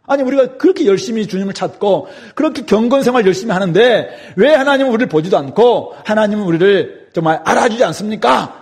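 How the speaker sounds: acted, insistent complaint to God; protesting prayer. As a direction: plead your case with mild indignation. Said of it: "이렇게 항변하면서 기도한다는 것입니다". (하나님께 따지듯 항변하는 흉내)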